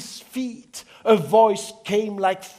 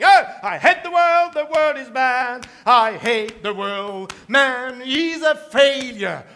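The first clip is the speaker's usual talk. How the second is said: moaning. Acted. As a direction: groan out the complaint, dragging the last lines. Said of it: "off he went moaning".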